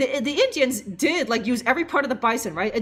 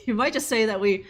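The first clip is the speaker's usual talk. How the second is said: normal talking voice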